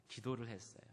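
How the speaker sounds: ordinary talk, nothing marked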